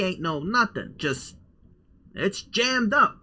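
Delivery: twangy drawled character voice; lightly held country accent. Acted. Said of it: "the accent I've been using".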